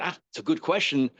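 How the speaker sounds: even, unhurried acknowledgement at normal pitch; calm approval. Shown as a demonstration. Teacher showing pupil his question is good, calm. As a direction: take the question calmly. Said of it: "if I say it very calmly".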